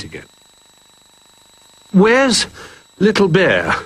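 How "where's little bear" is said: high anxious question; worried giraffe. A narrator's reading. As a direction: ask high, looking around in worry. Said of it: "Jolly asked".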